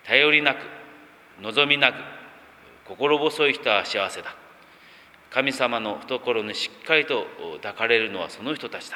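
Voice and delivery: recited lightly in Kesennuma dialect, phrase by phrase; a touch of Tohoku Kesen speech, with pauses. Acted. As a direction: read out the Kesennuma-dialect translation. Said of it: "気仙沼の言葉で訳すとどうなるか".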